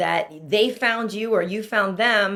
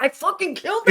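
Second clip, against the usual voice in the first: higher, louder mock boast after an audition; cocky actor boast; 7 semitones higher, 5 dB louder than usual. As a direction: brag like you nailed it, a bit hammed-up. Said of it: "you're like".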